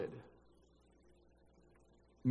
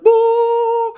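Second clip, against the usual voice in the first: much higher, much louder sung out "Boo!"; jump scare; 15 dB louder than usual. Pretend. Angel springing out at Zechariah with a loud "Boo!". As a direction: leap out and spook him.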